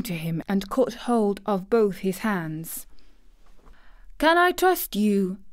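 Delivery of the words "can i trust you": high-pitched, urgent plea; imploring. A narrator's reading. Girl about to share a secret with the boy, imploring. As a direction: plead for his promise. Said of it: "she implored".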